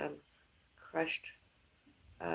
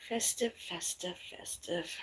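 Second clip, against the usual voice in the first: sad festive; 5 dB quieter, slower than usual. Real, not acted. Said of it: "In a sad sort of way".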